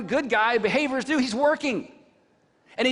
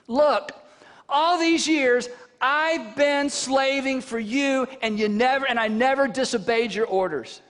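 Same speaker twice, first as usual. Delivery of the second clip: put-on aggrieved older son; 3 semitones higher, slower than usual. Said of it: "he answered his father".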